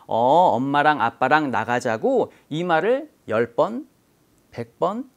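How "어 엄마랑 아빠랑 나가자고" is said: patient mother. Retold or imitated. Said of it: "엄마가 계속 그 말을 해주는 거죠".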